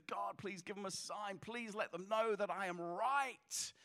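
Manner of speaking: hushed plea, drawn out at the end; desperate pleading. Acted. Pastor on his knees begging God for a sign, desperate. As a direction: beg softly, stretching the last words. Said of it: "he's so desperate".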